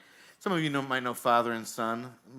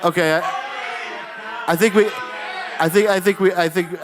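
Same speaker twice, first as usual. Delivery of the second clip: loud, raised-pitch interruption; calling over crowd; 5 semitones higher, 7 dB louder than usual. Real, not acted. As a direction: call out to stop the audience. Cutting off the noisy crowd.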